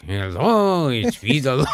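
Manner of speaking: half-hearted attempt at copying an exaggerated voice; failed Peter Lorre imitation. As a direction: try the caricature, but lightly and badly. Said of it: "couldn't do a good Peter Lorre imitation".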